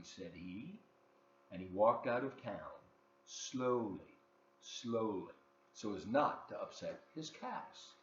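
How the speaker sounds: put-on lively read-aloud for children; story narration. A narrator's reading. Host reading a picture book to kids, lively storytelling.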